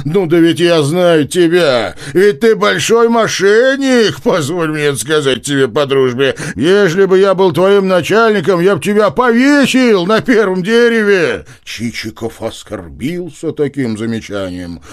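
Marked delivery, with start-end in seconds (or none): 0.1-11.5 louder, much higher bluster; boisterous loud teasing. Acted. Nozdryov mocks Chichikov, loud bluster. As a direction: bellow it like a rowdy friend.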